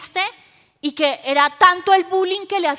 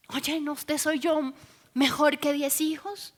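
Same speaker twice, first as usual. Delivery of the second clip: softly voiced, gentle question; tender consoling; 7 dB quieter than usual. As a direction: comfort her quietly, as a loving husband. Husband consoles his sad wife.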